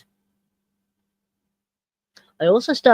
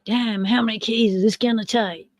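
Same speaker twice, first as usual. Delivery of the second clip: put-on a light American accent sneaking in again; a mild American accent on the word damn; 3 semitones higher than usual. Vlogger repeating his key-count worry, lightly in an American accent. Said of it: "Said an American accent again".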